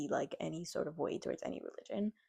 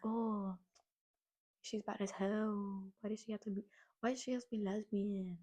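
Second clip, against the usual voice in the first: imitating tough kids; 4 dB quieter than usual. Vlogger imitating tough kids who talk like this. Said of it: "this is how they talk".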